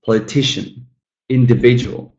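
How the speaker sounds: "politician, individual" stressed on TI and VID; third-syllable stress. Shown as a demonstration. Teacher's four-syllable examples, third-syllable stress on "politician, individual". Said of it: "The third one".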